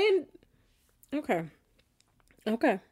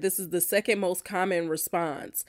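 hushed whispered aside; whispering in disbelief; 4 semitones lower, 6 dB quieter than usual. Real, not acted. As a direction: drop to a whisper. Quoting host in disbelief.

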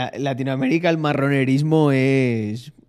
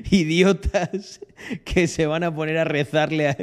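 laughing; 3 semitones higher than usual. Real, not acted. Se ríe del vídeo.

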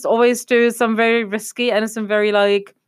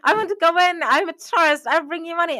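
retold pleading; 10 semitones higher than usual. Friend pleads with guard to enter.

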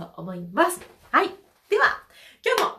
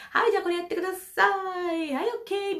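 mock trainer instructions; 9 semitones higher, faster than usual. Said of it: "みたいなことってあんまできない".

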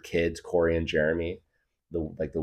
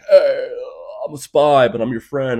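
high, much louder mock spy announcement; Robert Pattinson spy; 7 semitones higher, 9 dB louder than usual. Robert Pattinson in Tenet telling you he's a spy, mock. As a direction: blurt out the spy line, hammed up. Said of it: "Robert Pattinson's like".

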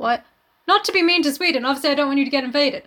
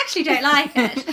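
mock serious. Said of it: "I have to say it so seriously?".

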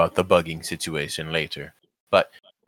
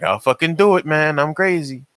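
unhinged threat; 6 semitones higher than usual. Retold or imitated. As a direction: act crazy and dangerous.

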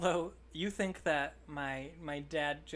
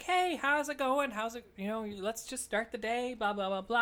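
chipper; 6 semitones higher, 4 dB louder than usual. Retold or imitated. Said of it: "I'm kinda chipper".

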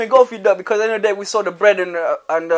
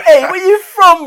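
loud, slow, menacing street challenge; London roadman voice; 13 semitones higher, 10 dB louder, slower than usual. Retold or imitated. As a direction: bark it like a London thug.

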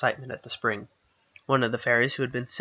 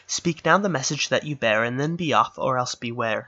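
a touch of a threatening fairy, louder; stern fairy voice; 4 dB louder than usual. Acted. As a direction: warn him off, commanding. Red fairy threatens messenger.

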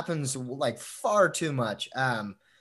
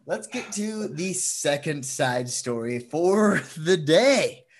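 slow, hammed-up announcer line; silly drawn-out segue; 3 semitones higher, 4 dB louder, slower than usual. Host cracking up while introducing the next story, slow and hammy. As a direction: stretch it out like a goofy host. Laughing, stretched show segue.

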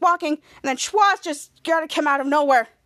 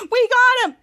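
raised, high, laughing cheer; gleeful cheer; 8 semitones higher, 6 dB louder than usual. Retold or imitated. Ray cheering that they found the villain, gleeful cheer. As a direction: whoop as you win.

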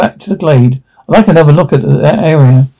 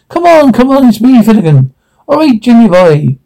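bad Irish accent; 6 semitones higher than usual. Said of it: "in a dreadful, cold, old Irish accent".

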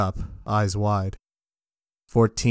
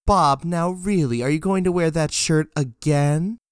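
nagging wife; 7 semitones higher than usual. Acted. Wife nags Bob.

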